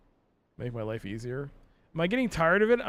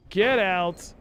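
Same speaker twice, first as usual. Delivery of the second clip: frustrated outburst; 4 semitones higher, 8 dB louder than usual. Real, not acted. Quitting a frustrating puzzle.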